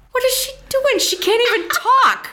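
high, laughing disbelief. Retold or imitated. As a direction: squeal it through laughter. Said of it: "I was like".

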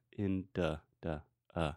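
"in, duh, duh, uh" broken up, softly; schwa demo. Shown as a demonstration. Teacher isolates the schwa, in, duh said softly apart. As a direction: separate the syllables, duh reduced to a soft uh. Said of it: "the second syllable is the schwa".

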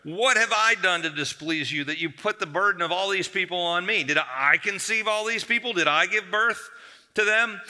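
high, loud exasperated rant; building desperate complaint. Acted. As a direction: vent at God like a worn-out leader. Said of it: "He says".

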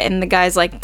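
usual speaking voice

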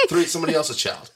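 words squeezed out through laughter; laughing. Real, not acted. Teasing her friend about yelling at refs, laughing. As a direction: laugh your way through the list.

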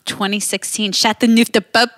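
Chateauneuf said in a French accent; French wine name. Shown as a demonstration. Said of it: "Everyone say it".

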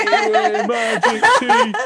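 very high, loud rowdy cheer. Acted. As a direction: whoop it up like drunken hooligans. Soldiers cheer at sparkles.

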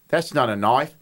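low, tentative Australian demo; attempted Australian accent. Shown as a demonstration. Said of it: "stretch it out".

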